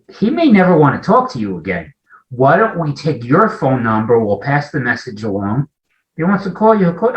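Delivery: a protective mother keeps him at a distance; mother's caution. Retold or imitated. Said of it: "they said".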